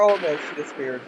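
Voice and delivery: ordinary talk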